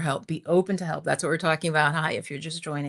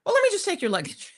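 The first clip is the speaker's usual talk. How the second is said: much higher, breezy mock reassurance; cheerful helper; 12 semitones higher, 3 dB louder, much faster than usual. Stranger brushing off her worry, higher breezy imitation. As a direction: squeak it out like an eager helper. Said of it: "He's like".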